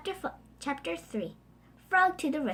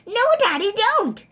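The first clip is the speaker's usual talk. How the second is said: higher, louder pleading; pleading cry; 9 semitones higher, 10 dB louder than usual. Acted. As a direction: beg her father not to. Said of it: "cried Poppy".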